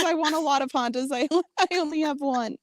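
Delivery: high, crying mock voice; whiny high-pitched fake sob; quoting Foz. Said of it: "Foz says".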